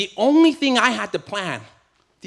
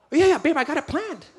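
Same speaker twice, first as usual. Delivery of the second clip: nervous laughing bluff; 11 semitones higher than usual. Retold or imitated. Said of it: "And I was like".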